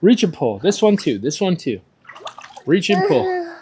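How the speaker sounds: loud, high swim cues; echoey pool coach shouting. Real, not acted. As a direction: call the strokes across the water. Coach calling strokes to child.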